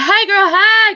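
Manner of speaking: high, loud mock sing-song greeting; playful high-pitched catchphrase; imitated friend's greeting. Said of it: "She always like".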